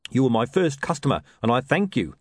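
lightly voiced hard-done-by trader; despondent sausage seller. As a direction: feel sorry for yourself as a street seller.

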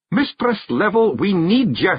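high Scottish call, a moderate shout; Rob Anybody shouting. A narrator's reading. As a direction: call urgently into a dazed woman's ear. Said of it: "shouted Rob Anybody into her ear".

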